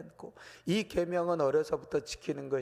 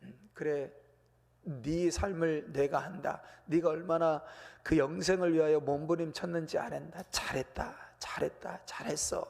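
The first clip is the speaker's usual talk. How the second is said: 부드럽고 느린 위로하는 목소리; tender praise. Retold or imitated. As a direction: gently affirm a young man's struggle. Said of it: "인정해 주시는 거예요".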